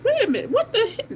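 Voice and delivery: sudden high fast "wait a minute"; startled, catching her own mistake; surprised. Real, not acted. Noticing the wrong shade on her arm, surprised and fast.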